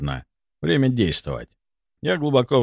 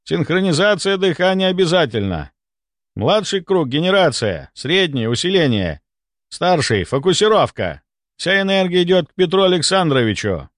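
higher, firm instructions; brief the team on their tasks; announcing; 7 semitones higher than usual. A narrator's reading. Doctor assigning each circle its role, announcing. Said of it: "объявил Мелехов".

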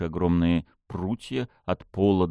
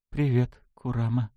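trembling voice; 3 semitones higher than usual. Acted. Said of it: "дрожащим голосом и нервно хихикнула".

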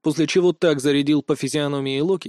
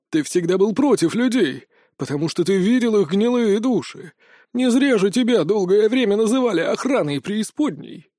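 raised, reproachful voice of a wounded god; Loki pleading; 4 semitones higher than usual. Acted. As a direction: appeal to an old brother, hurt.

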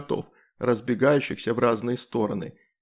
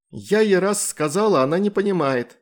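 higher, louder angry nagging; angry mother scolding; 7 semitones higher, 5 dB louder than usual. A narrator's reading. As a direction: scold while spanking. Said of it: "сердито приговаривала мама". (сердитая мама ругает, выше и громче)

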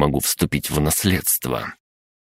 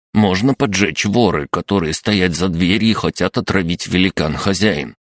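crab gnome voice; 4 semitones higher than usual. Acted.

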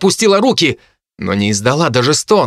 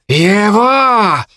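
sharp high shriek of a single word; harpy's shout; 7 semitones higher than usual. A narrator's reading. Harpy Kai singles out the boy with a high shout. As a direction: fling the word out like a claw. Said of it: "выкрикнула женщина".

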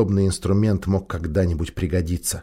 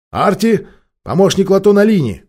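much higher, hurried call-out; urgent announcement; 10 semitones higher, 6 dB louder than usual. Acted.

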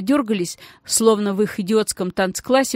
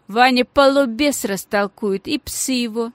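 mocking; 3 semitones higher than usual. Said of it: "с издёвкой".

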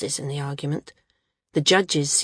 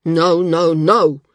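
forceful refusal; 8 dB louder, much slower than usual. Acted. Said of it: "The landsman shook his head violently".

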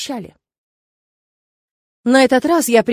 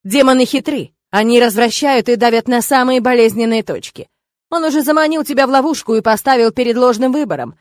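raised voice; 6 dB louder than usual. Acted. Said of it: "Тирг повысил голос".

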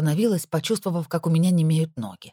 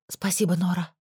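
ordinary delivery

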